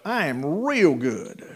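slow, satisfied declaration; imitating a fully provided-for apostle; acted contentment. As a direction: draw out each word as if wanting nothing. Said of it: "He's telling them".

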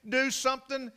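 put-on high-pitched panicked little girl; imitated child's screaming. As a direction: plead frantically with Daddy, high and urgent. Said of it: "as she's screaming".

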